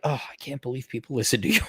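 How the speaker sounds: fast, laughing mom quote; laughing imitation of mom. Streamer laughing while imitating his mom's disbelief. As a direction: laugh through her words. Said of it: "My mom's like".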